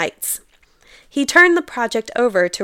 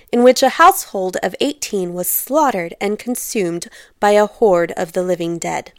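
story narration. A narrator's reading. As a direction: read the classic opening aloud with weight. Reads novel excerpt aloud.

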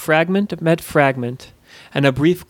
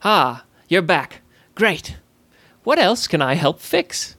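eager goblin; 3 semitones higher than usual. Acted. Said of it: "hungry for a new challenge".

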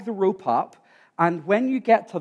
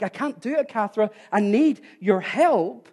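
high-pitched pleading, slowing at the end; retold plea for help; 4 semitones higher than usual. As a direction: act out begging for help. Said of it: "I asked her for help".

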